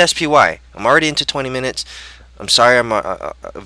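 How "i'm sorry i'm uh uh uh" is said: groggy, stumbling over words; halting and foggy-headed. Real, not acted. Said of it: "again, I'm very groggy".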